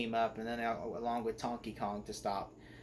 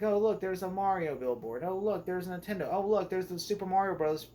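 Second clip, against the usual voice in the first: lightly acted delight, a little higher; mock excited spotting; 5 semitones higher than usual. Reviewer listing Easter eggs as a viewer spots them, mildly excited. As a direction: point out each find like an eager fan.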